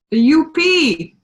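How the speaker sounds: slow, lifted Upper Peninsula accent; Yooper accent. Real, not acted. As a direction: stretch it out like a Yooper. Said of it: "I sound like a youper".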